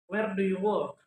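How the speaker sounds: falling tune on "Where do you work?"; question intonation. Shown as a demonstration. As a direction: let "work" drop at the end of the question. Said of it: "Intonation refers to the variation in pitch".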